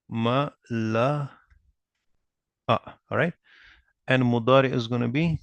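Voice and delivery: "ma... la... a, yam... la... u" with long gaps between syllables. Shown as a demonstration. Teacher dictating the verb forms to students, syllable by syllable. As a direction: spell out "ma la a, yam la u" one slow syllable at a time. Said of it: "I'll give you the madi of it".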